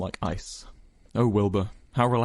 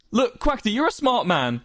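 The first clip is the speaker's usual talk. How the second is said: pleading; 13 semitones higher, 4 dB louder than usual. A narrator's reading. Wilbur pleading.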